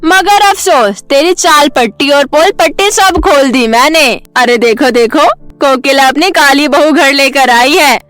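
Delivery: mocking neighbour. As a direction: sneer at the dark-skinned bride. Sharda gloating taunts.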